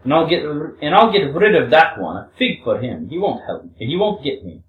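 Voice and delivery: high, loud, hammed-up tirade; hysterical shouting. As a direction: rant defiantly, pitch leaping up and easing at the end. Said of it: "She shouted these last words hysterically".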